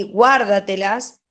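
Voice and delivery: Guárdatelas stressed on GUÁR; Guárdatelas as GUÁR-da-te-las, the corrected stress; stress on first syllable. Shown as a demonstration. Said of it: "no puedo decir guárdatelas".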